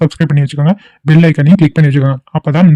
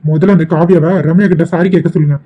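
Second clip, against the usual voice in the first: raised indignant protest; 3 semitones higher than usual. Acted. Relative protests to father.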